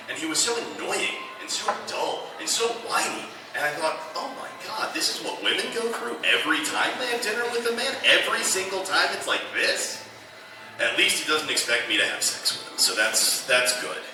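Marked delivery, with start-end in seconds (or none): 4.1-10.0 dawning realization. Retold or imitated. Inner realization, exasperated.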